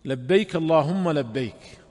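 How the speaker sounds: measured devotional recitation; slow recited talbiyah. Shown as a demonstration. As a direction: recite it slowly as the pilgrim's call. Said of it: "هذه هي تلبية النبي".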